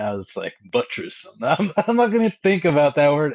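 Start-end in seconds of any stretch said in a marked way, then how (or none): 0.7-1.2 softly imitated Southern drawl; a hint of Southern drawl, softened. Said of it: "especially with that Southern drawl accent".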